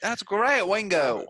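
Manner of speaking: high mock-Southern voice of a rock band member; hammed-up country twang on a famous band member. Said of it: "a country Southern Beatles group".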